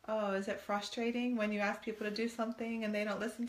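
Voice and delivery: a hint of sing-song mock concern; mock sympathy. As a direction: feign pity to make the point. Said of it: "And I said".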